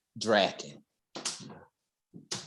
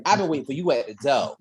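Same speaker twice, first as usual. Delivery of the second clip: sassy Miss Foxy; faster than usual. Retold or imitated. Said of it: "head cocked to the side and everything, like Miss Foxy".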